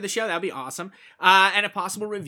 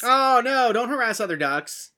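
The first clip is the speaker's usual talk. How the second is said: mock alarm; 6 semitones higher, 7 dB louder than usual.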